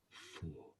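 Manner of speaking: low, unvoiced whisper of a secret answer; whispered prompt. Wife prompting her husband in a whisper. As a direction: hiss the answer under the breath. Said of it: "instructed by his wife to say".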